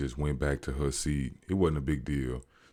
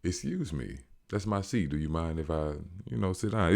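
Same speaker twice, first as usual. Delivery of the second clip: quieter, courteous way to ask; polite, soft request; 7 dB quieter than usual. Shown as a demonstration. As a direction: ask for the seat back gently, much softer. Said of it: "you can just easily say".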